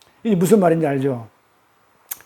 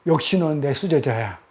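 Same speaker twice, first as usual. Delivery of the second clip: fond praise; 4 semitones lower, 4 dB quieter than usual. Acted. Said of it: "사랑스럽게 봤다니까요".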